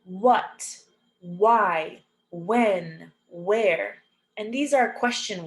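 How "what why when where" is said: "What, why, when, where" each opening with a plain W. Shown as a demonstration. Teacher showing WH sounds like W, careful word list. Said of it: "it just makes the W".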